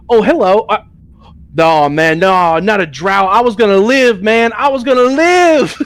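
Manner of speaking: high, loud hammed-up wailing; high mock cry for his life; mock panicked plea. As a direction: wail it in mock despair. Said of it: "he's like".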